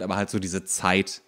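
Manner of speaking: ordinary talk, nothing marked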